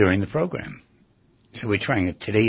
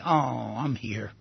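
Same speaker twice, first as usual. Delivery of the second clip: softer, soothing acted reassurance; tender, quieter words of comfort; gently comforting; 5 dB quieter, slower than usual. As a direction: lightly soothe a crying child. Comforting a crying child.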